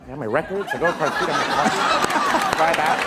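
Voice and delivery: Fred Armisen impression. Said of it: "impression of the hilarious Fred Armisen".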